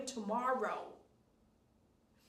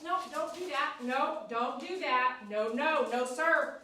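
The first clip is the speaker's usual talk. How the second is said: louder, firm warning; firm raised scolding of the dog; 3 semitones higher, 4 dB louder, slower than usual. Real, not acted. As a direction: stop the dog mid-move. Scolding dog not to move.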